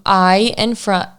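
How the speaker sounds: normal talking voice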